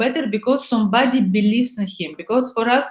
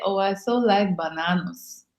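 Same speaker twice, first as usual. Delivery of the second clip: suggestive, teasing and softer; 2 semitones lower, 6 dB quieter than usual. Shown as a demonstration. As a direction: let the double meaning sit under the word, softer. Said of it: "but when you say".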